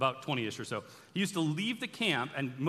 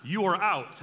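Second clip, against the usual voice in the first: a slightly raised, firm voice of command; commander's decree; 3 semitones higher than usual. Retold or imitated. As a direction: lay down the terms as the commander, lightly played. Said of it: "That guy is the commander".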